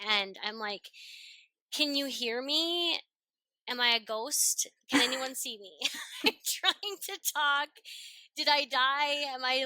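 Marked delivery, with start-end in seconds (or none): 1.7-9.6 mock exasperation. Mock exasperation while homeschooling daughters.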